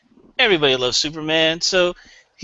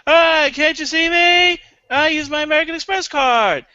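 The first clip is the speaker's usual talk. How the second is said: Seinfeld frequency; 10 semitones higher than usual. Retold or imitated. Comic mimicking Jerry Seinfeld's voice in an ad. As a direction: pitch it like a slick credit card ad. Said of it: "he speaks in the frequency".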